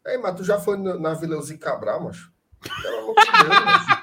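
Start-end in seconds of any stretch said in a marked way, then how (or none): 2.8-4.0 laughing. Real, not acted. Mocking friend's stadium remark.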